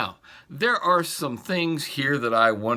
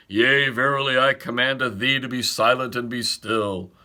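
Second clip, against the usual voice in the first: louder, stately mock-archaic command; commanding sonorous tone; 3 dB louder than usual. Pastor imagining Jesus as stately and officious, louder pompous command. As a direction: proclaim it like an officious herald. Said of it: "used a commanding, sonorous tone".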